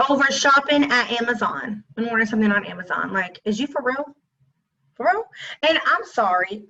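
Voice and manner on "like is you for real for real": rising disbelief, high on the second real; are you serious, climbing up; incredulous. Real, not acted. To viewers about his text, incredulous.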